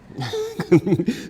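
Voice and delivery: a short real laugh at the class; bright laugh. Real, not acted. Yoga teacher laughs at her class's struggle, real laugh. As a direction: laugh at your own teasing. Laughs after a hard pose.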